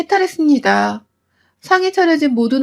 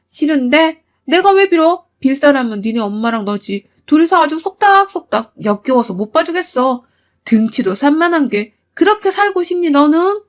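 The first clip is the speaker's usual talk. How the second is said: higher, mocking defiance; defiant sneer; 3 semitones higher than usual. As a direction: sneer right back at him. Wife sneering at husband. (남편을 비웃으며 높게 쏘아붙이듯)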